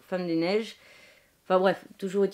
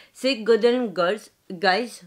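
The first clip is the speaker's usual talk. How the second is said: English accent; 5 dB louder, much slower than usual. Real, not acted. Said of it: "moi et mon accent anglais".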